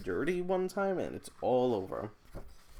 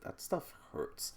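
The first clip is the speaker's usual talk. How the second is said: whispered wince; 5 semitones higher, 5 dB quieter, slower than usual. Real, not acted. Remembering loose tooth pain.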